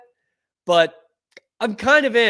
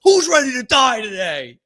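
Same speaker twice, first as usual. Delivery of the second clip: high, loud mock locker-room yell; hammed-up battle cry; 8 semitones higher, 8 dB louder than usual. Imagined lineman grabbing teammates by the helmet, mock battle yell. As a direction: holler it like a war cry. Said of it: "He's gonna be grabbing by the helmet".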